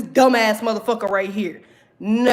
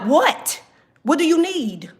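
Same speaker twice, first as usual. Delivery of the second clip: whole attitude. Pretend. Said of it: "have a whole attitude".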